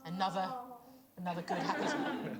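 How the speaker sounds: a hint of mock-Australian accent; mimicked Australian accent. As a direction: echo the guest's Australian phrasing teasingly. Teasingly echoes guest's Australian phrase.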